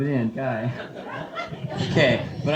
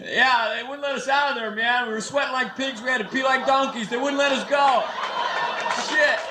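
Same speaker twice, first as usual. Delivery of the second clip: agitated survivor; 5 semitones higher than usual. Acted. Acted survivor interviewed after club ordeal.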